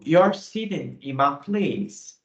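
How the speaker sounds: slow, careful teacher read; slow model sentence. Shown as a demonstration. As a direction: spell it out slowly for learners. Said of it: "Por exemplo". (leitura lenta e clara de professor)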